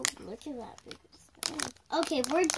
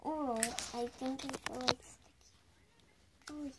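whispering; 8 dB quieter than usual. Real, not acted. Kid whispering behind camera.

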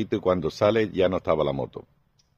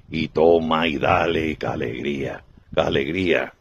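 lightly voiced satisfied wife; 2 semitones lower than usual. Wife telling husband about the alien, lightly blissful. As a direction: savour every word of delight.

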